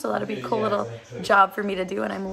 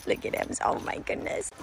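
hushed, softer marvel under the breath; whispered aside; 6 dB quieter than usual. Real, not acted. Owner watches her dog in the water, soft whisper. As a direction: whisper so the dog won't notice.

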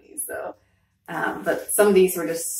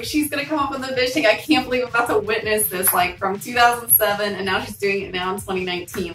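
excited fan; 4 semitones higher than usual. Retold or imitated. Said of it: "I was like".

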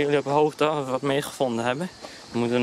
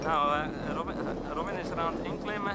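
wind on mic; 3 semitones higher, 3 dB quieter than usual. Real, not acted. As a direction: wind noise over the voice. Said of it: "Sorry voor de, voor de wind".

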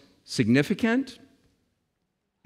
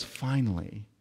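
tender voice of God; 2 semitones lower than usual. Acted. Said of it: "God looks at Jesus and says".

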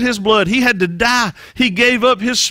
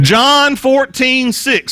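slow, louder call for the congregation; louder prompt; 4 semitones higher, much slower than usual. Shown as a demonstration. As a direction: lead them to say it, drawn out. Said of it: "Say it again".

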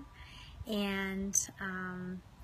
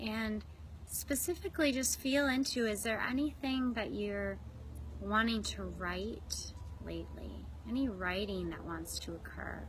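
measured guide posing reflective questions; guided meditation. Real, not acted. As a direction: invite inward reflection, pausing between phrases.

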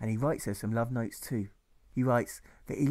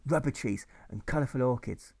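put-on higher, sing-song baby-talk storytelling; sugary storyteller; 3 semitones higher than usual. Sunday school teacher telling little Alfred his daddy's story, cooing. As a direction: coo the tale like to a small child.

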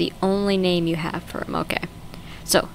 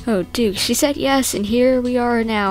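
sudden surprise; 6 semitones higher, 4 dB louder than usual. Real, not acted. Gamer suddenly recognising the couple, excitedly surprised. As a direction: pitch leaps high, excited recognition. Recognising characters from earlier episode.

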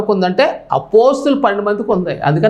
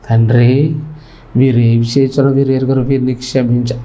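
a lowered, humble plea to the Father; meekly; 9 semitones lower than usual. Acted. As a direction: pray it low and meek, asking forgiveness. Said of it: "అది కూడా దీనంగా అన్నాడు".

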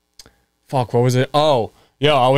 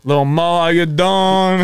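drawn-out mock hello, rising higher; playful greeting; 4 semitones higher, slower than usual. Co-host mock-greeting Mo as if he called, playful drawn-out hail. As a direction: stretch out a teasing greeting.

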